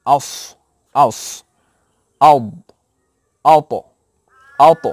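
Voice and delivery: each letter said with a short আ before it and a stopped end: আস, আউদ, আওত; letter with hamza. Shown as a demonstration. Teacher to students, demonstrating hamza before each letter. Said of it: "Hamza এনে ... সাকিন করব".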